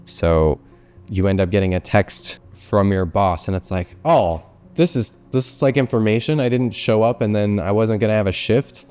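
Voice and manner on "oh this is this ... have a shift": hammed-up cheer at the good news; chirpy imitation of someone finding the upside; mock delight. Mock-cheerful reaction to boss text.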